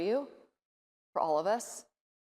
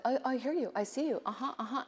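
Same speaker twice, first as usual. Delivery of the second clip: soft, hollow "uh-huh" of someone not listening; mock a distracted listener pretending to care; lightly voiced fake listening; fake attentive listener; 4 semitones higher, 5 dB quieter than usual. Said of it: "pretends to be present".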